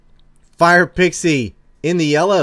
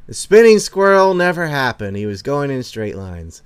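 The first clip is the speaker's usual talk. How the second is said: repeated proclamation; 3 semitones higher, 6 dB louder than usual. Pretend. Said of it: "that's what I'm gonna say".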